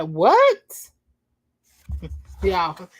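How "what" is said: high rising outraged what; indignant what. Acted. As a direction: throw it back like a hair-flip. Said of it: "put that hair roll in it".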